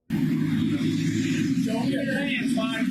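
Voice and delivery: shouting. Real, not acted. Officer ordering suspect.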